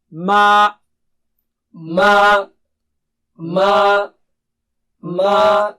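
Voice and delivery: ma from the mouth, not the nose; teacher drilling an oral ma. Shown as a demonstration. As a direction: drill ma with no nasal sound. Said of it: "speak with your mouth, not with your nose".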